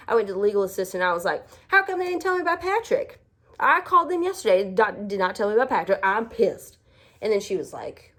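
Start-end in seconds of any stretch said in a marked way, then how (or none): 1.7-6.8 high, indignant complaint without real volume; mock outrage, pitched up; retold pissed rant. To the legal assistant, mock-indignant high complaint. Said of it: "And I was so pissed".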